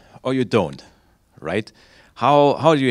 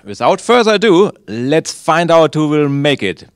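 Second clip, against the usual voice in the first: announcer hype; 4 semitones higher, 5 dB louder than usual. Acted. Host kicks off the match.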